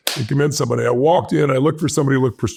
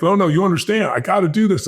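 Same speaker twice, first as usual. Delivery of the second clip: 1 pleading; 6 semitones higher than usual. Retold or imitated. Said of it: "I got even more passionate".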